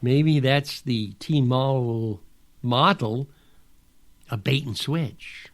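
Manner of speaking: calm and understated; calm, dry remark. Retold or imitated. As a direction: say it coolly, a touch wry. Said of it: "I looked at her very calmly and said".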